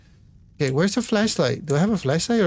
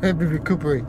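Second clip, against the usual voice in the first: breathless after a scare; panting, catching your breath; faster than usual. Real, not acted. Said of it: "let me take a breather".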